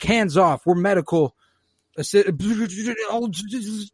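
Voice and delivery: mock protest. Medic droid warning off soldiers, mock indignant protest. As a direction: cut off mid-word in protest.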